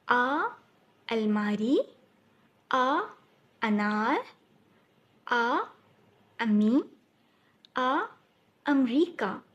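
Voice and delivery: आ then अलमारी, slow and clear; sounding out aa first. Shown as a demonstration. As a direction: stress the short आ sound at the start of अलमारी. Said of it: "उसकी आवाज़ आ की आएगी". (शुरुआती आ की आवाज़ पर ज़ोर देकर)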